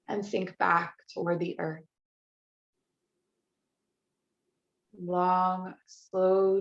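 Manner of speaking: unhurried meditation voice with long pauses; guided relaxation. Real, not acted. Yoga teacher easing the class into restorative practice, guided relaxation. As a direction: guide them gently into rest, phrase by phrase.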